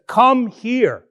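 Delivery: short, firm order; a mild commanding call to come over. Retold or imitated. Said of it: "this is a command form".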